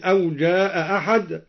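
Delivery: أو جاء أحد with the hamza of جاء dropped; قراءة أو جاء أحد بإسقاط الهمزة. Shown as a demonstration. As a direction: glide جاء straight into أحد without a hamza stop. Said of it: "قرأ بإسقاط الهمزة".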